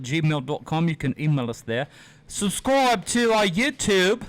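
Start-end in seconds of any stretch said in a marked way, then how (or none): 2.3-4.2 slow, hammed-up British plug; put-on British accent; mock British accent. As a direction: draw it out in fake British. Hosts clowning in British accents.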